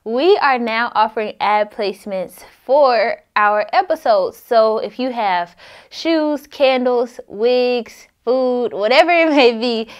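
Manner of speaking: upbeat sponsor announcement; ad read. Acted. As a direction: pitch it like a podcast ad. Reads sponsorship ad.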